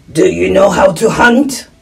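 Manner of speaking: put-on voice of a helpful wolf. Wolf reassuring a lost little one, creature voice. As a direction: play the wolf talking to a child.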